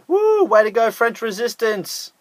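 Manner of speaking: high whooping cheer. Real, not acted. Vlogger cheers the French resistance, high excited whoop. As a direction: whoop it up in delight.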